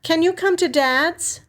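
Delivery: sister's voice, hesitant. A narrator's reading. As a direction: ask gently, holding back bad news.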